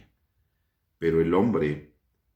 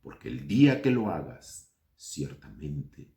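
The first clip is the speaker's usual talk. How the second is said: solemne, lenta, bajando hasta un susurro; voz de Dios; 5 semitones lower, slower than usual. Acted. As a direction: Dios advirtiendo con gravedad. Voz de Dios leyendo la instrucción. (voz de Dios que advierte, cada vez más baja y lenta)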